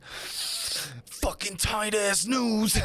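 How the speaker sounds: mock angry grumble. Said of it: "it comes out as, like, anger".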